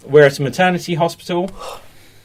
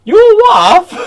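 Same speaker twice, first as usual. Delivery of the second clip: high nurse voice; 10 dB louder than usual. Acted. Nurse voice in scene.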